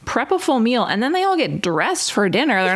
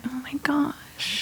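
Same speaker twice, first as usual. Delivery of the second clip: drawn-out whispered disbelief, much softer; slow whisper; 5 semitones higher, 9 dB quieter, much slower than usual. Retold or imitated. Host whispering her disbelief at the cast member. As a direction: breathe it out slowly, stunned. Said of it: "And I was like".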